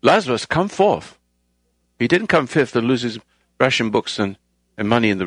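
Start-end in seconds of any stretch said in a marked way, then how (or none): 0.0-1.2 higher, commanding call to the dead; a hint of a booming preacher; mild loud call. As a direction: call Lazarus out, raised but held back. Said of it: "spoke with a loud voice".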